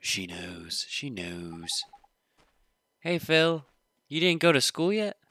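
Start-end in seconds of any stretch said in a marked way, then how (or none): 3.0-5.2 a lightly voiced eager kid, higher and louder; chirpy kid greeting his friend. Player voicing the kid greeting Phil, lightly higher.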